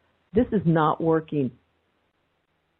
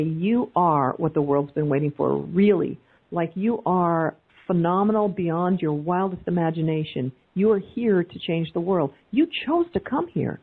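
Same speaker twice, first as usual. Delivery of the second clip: light affirmation. Shown as a demonstration. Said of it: "it feels light when I say".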